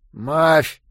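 lips barely there, mushy consonants; mouthless mumble. A narrator's reading. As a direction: speak through a tiny mouth hole. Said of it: "сквозь каплевидное отверстие, которое когда-то было его ртом".

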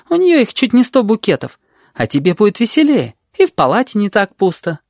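put-on high-pitched, lively girl's chatter; confident red-haired girl. A narrator's reading. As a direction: chatter on high and sure of yourself.

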